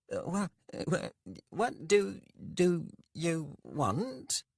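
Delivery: high, stammering fear, slowing at the end; scared stammer. A narrator's reading. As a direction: stumble over the words in fright. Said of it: "Fear was not something he was used to".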